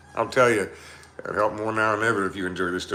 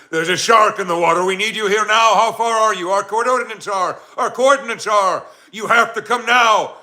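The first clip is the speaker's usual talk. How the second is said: urgent radio call; 11 semitones higher, 7 dB louder than usual. Acted. Captain radioing Coast Guard urgently.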